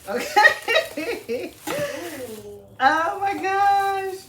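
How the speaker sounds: high, loud breathless joy; delighted gasp. Real, not acted. Opening the gift box for viewers, gushing with delight. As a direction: gush over it.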